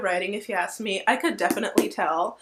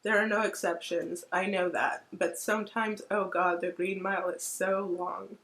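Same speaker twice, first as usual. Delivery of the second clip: choked up reading; 5 dB quieter than usual. Real, not acted. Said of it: "I'm gonna cry just reading this".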